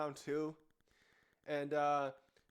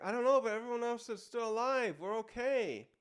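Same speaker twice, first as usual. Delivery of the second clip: voiced Colin; 7 semitones higher, 4 dB louder than usual. Voicing Colin reassuring in manga.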